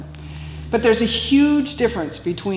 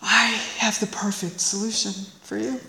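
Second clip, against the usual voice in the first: calm sly offer; 7 dB quieter than usual. Retold or imitated. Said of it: "And she goes".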